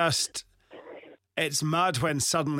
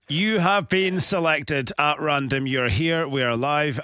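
slow, drawn-out reveal; radio announcer; 4 dB louder, slower than usual. Acted. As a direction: build suspense like a game-show host. Host's dramatic prize reveal.

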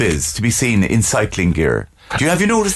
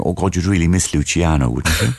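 posh opera buff; 6 semitones lower than usual. Retold or imitated. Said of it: "what I do ... go around and saying".

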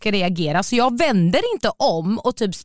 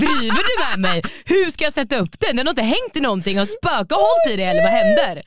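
rising, incredulous mock outrage; exasperated rant; 6 semitones higher, 4 dB louder than usual. Woman retells struggling to rehang blinds, exasperated. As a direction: build to a high, baffled protest.

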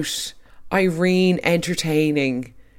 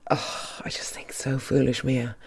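exasperated whisper; 6 dB quieter than usual. Real, not acted. Exasperated aside about Mia.

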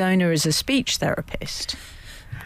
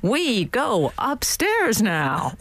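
slow robotic dog voice; 3 semitones higher, much slower than usual. Retold or imitated. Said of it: "Bunny said".

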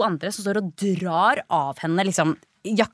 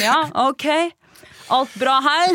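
sheepish casual; 7 semitones higher, 3 dB louder than usual. Retold or imitated. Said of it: "og si sånn".

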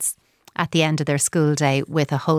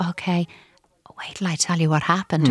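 put-on hushed, conspiratorial child whisper; child whispering a secret at bedtime.

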